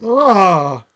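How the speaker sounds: loud drawn-out "ugh"; a reenacted groan of disgust; loud grossed-out groan. Reacting to gruesome cartoon scene.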